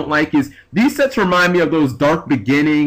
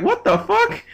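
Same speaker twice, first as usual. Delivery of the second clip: squeaked high through a laugh; a bewildered laugh cracking way up; laughing disbelief. Retold or imitated. Friend handed bread and a knife, laughing disbelief. Imagined friend reacting to absurd offer.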